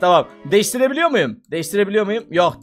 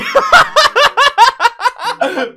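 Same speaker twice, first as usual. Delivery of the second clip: real laughing fit at the hair; burst of laughter; 13 semitones higher than usual. Real, not acted. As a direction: crack up at the screen. Bursts out at a silly hairstyle.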